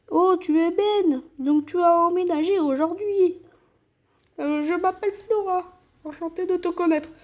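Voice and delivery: light Flora voice; girl voice. Acted. Voicing Flora before changing.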